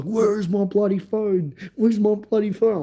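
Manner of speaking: retold angry friend. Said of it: "He gets so angry".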